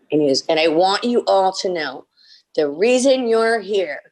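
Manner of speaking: retold speech to the whole crew; imitated director's proud announcement. Director addresses the set, retold.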